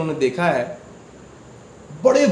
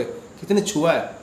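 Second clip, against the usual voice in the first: slow, hushed; slower than usual. Shown as a demonstration. Guru recalling the felt touch, slow and hushed. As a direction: let "किसी ने छुआ है" linger slowly, hushed.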